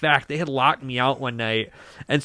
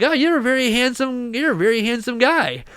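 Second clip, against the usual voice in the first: mock flattering owner; 9 semitones higher than usual. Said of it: "And then he's like".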